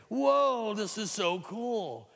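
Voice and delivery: high, loud whoa, then slow delight; amazed boy. Acted. Boy marvels at his new ant body, high and awed. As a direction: savour the wonder of a new body.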